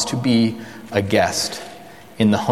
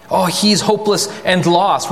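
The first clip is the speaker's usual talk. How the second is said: dismissive; 7 semitones higher than usual. Retold or imitated. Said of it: "That kind of attitude of".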